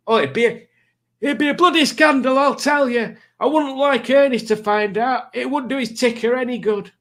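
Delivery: high, mock-outraged gossipy voice; mock scandalised. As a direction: play the shocked old busybody. Indignant gossip about a scandal.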